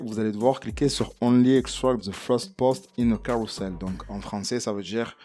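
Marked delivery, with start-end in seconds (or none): 1.2-3.7 English option read with a French accent. Real, not acted. Presenter naming the option to click, French-accented English. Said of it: "Mon accent anglais, je le travaille".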